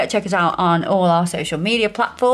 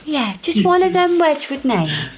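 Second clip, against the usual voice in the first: higher, wheedling mum voice; impression of mum; 4 semitones higher than usual. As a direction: imitate your mum angling for a favour. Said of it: "I love your impression of your mum".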